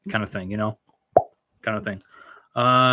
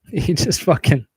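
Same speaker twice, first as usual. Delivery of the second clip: real laughter breaking into higher-pitched words; laughing; 6 semitones higher, 3 dB louder than usual. Real, not acted. Streamer reacting to a rude comment, laughing. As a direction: crack up while trying to talk.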